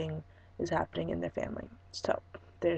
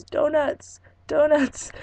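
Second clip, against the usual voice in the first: higher and louder, imitating an excited grandma; 8 semitones higher, 8 dB louder, much slower than usual. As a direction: call out the word twice like a delighted grandma. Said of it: "my host grandma, not speaking too much English, goes".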